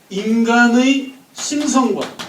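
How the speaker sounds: 인간의 심성과 drawn out at half speed, each syllable stretched; slow emphasis. Shown as a demonstration. Teacher lecturing students, slowly stretching the key phrase. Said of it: "teacher stretches key phrase".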